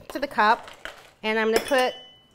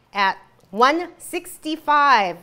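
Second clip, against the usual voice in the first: drawn out slowly; 5 dB louder, much slower than usual. Shown as a demonstration. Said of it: "What did I say?".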